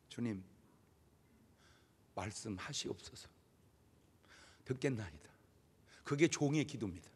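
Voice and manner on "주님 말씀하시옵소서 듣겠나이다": very soft, lower, humble plea; humble prayer. Shown as a demonstration. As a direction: pray softly like a servant. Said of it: "제대로 기도하는 사람은 이렇게 기도합니다". (종처럼 아주 작고 낮게 드리는 겸손한 기도)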